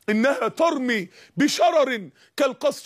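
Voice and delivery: measured Quranic chant; slow Quran recitation. Acted. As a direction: draw out the verse slowly and solemnly.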